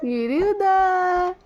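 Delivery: slow, drawn-out sing-song cooing. Real, not acted. Mother cooing to baby. (बच्ची को धीरे-धीरे दुलारते हुए पुकारना)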